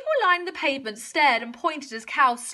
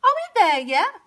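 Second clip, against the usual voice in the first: high, loud cow whine; impatient mooing plea; 8 semitones higher, 5 dB louder than usual. A narrator's reading. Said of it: "she mooed".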